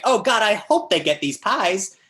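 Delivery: high, loud mock desperate hoping; overinvested viewer. Actor voicing a sitcom viewer, mock desperate investment. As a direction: plead as if the stakes were enormous. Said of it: "you're so invested".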